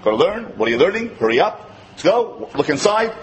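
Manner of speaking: put-on curt, pushy commands to a child; brisk nagging parent; impatient parent. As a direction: hurry the kid along, no warmth. Rushed, loveless parent commands.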